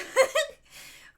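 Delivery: loud high laugh bursting out; burst of laughter. Real, not acted. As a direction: crack up at Gary. Laughing about friend's accent.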